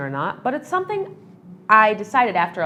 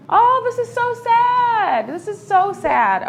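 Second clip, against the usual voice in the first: drawn-out, slow, much higher sorrowful sigh; sad sigh; 12 semitones higher, 4 dB louder, much slower than usual. Real, not acted. Vlogger reacting to the idol's letter, heartbroken and slow. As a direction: let the sadness spill out slowly.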